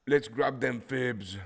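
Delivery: high, loud, drawn-out call; playful holler. Pretend. Trader rallying viewers to grab fibs, playful holler.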